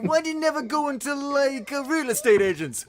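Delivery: put-on loud, high comic American accent. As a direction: ham up an American accent, calling out to someone. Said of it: "pitch perfect American accent".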